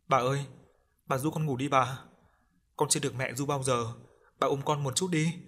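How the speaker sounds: a hint of a whimpering little ghost; pleading ghost child. Ghost child begs grandmother for help, lightly pleading.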